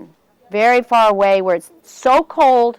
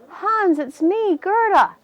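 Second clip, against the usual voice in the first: put-on girl's plea; 8 semitones higher, slower than usual. Girl pleading to lost friend.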